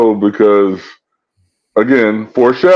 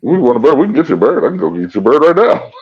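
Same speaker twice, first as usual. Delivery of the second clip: eager mock Hammer; 5 semitones higher, faster than usual. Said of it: "mimicking Hammer's eager offer".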